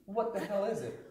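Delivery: mock yelling, held back; retold angry scream. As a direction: re-enact demanding answers from the culprits. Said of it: "I think I screamed at everyone".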